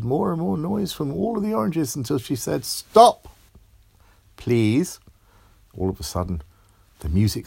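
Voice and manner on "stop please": shouted stop. A narrator's reading. Girl shouting at the noisy oranges, loud. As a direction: cut the noise off sharply.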